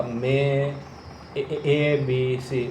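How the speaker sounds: एबीसी lengthened at a slow pace; slow stretch. Shown as a demonstration. Coach demonstrating a slow, drawn-out एबीसी. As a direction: draw out ए- ए- एबीसी gently. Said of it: "वो मैंने थोड़ा सा खींचा".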